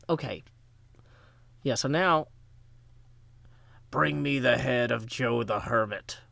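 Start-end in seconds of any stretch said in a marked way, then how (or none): 3.9-6.2 a hint of a stern biblical ruler giving a command; King Herod voice. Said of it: "That's my best King Herod voice".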